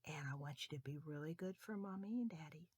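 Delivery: quiet and tender; soft bedtime sign-off. Real, not acted. Storyteller to children at bedtime, tender. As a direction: tuck them in gently.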